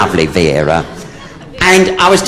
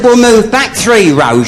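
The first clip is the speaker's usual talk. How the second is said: high, slow, raised cry; mock alarmed shout; 8 semitones higher than usual. Friend urgently tells Vera they'll move back three rows. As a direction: push it up high and drag it out.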